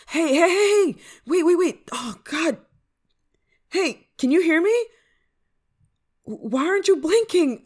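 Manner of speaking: high, loud panic; alarmed. Acted. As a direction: call out urgently to someone losing consciousness. Friend starts to pass out.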